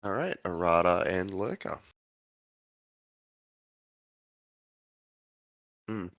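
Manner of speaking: talking through a mouthful of food; words round a bite of food; mouth full. Real, not acted. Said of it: "Sorry, mouthful of food".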